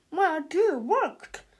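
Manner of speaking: loud slow smug boast. A narrator's reading. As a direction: take all the credit. Father claims credit.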